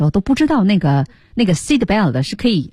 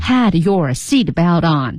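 slow and clear; 2 semitones lower, much slower than usual. Shown as a demonstration. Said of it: "这个词很重要啊".

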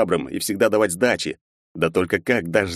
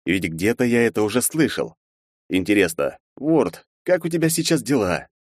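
ordinary delivery, nothing marked

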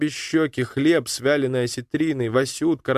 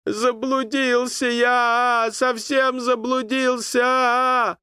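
high, slow call through tears; tearful crying call; 12 semitones higher, much slower than usual. A narrator's reading. Lost boy wading toward the boat, crying out. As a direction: sob it out while wading. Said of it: "глотая слёзы".

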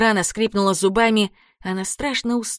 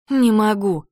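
teeth chattering; 2 semitones higher, 3 dB louder, slower than usual. A narrator's reading. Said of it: "стуча зубами".

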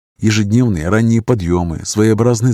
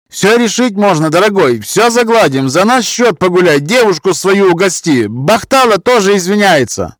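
much higher and louder, fawning; buy peace with flattery; pleading Roma man; 11 semitones higher, 5 dB louder than usual. Acted. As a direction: Roma accent, eager to please.

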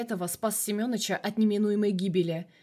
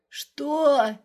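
higher and louder, a shocked yell; shouted what; 6 semitones higher, 6 dB louder than usual. Acted. The colonel hears the car was dumped and shouts in shock. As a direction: yell it in disbelief. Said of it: "А вот теперь он закричал".

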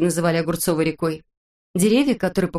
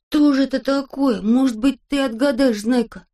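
curious question; 7 semitones higher than usual. A narrator's reading. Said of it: "спросил Авоська".

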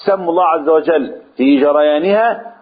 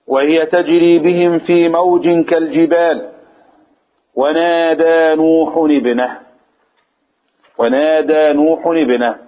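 Quran recitation; slower than usual. Shown as a demonstration. Reciting the verse.

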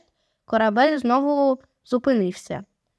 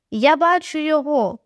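mild exclaim; 3 semitones higher than usual. Acted. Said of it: "вигукнула нарешті дівчина".

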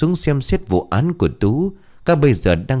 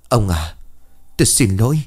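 dying apology; 2 semitones higher than usual. A narrator's reading. Dying wife apologises to her husband, mildly sorrowful. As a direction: apologise with a touch of grief.

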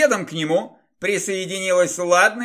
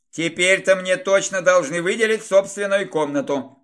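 grating voice. Acted. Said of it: "скрежещущим голосом".

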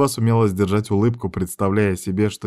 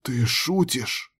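hollow voice; 4 semitones higher, 4 dB quieter, much slower than usual. A narrator's reading. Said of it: "глухим голосом спросила я".

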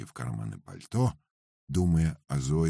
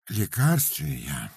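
sluggish question; 6 semitones higher, slower than usual. Acted. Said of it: "вяло переспросил Пётр Игнач".

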